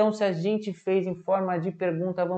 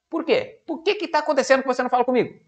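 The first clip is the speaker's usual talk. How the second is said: higher, rushed mock exasperation; frustrated user pleading with a silent computer, higher and rushed; frustrated complaint; 6 semitones higher, faster than usual. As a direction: plead with a computer that won't answer.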